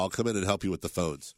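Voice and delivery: nasal voice from a cold; stuffy-nosed nasal voice. Real, not acted. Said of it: "my extra nasally voice today".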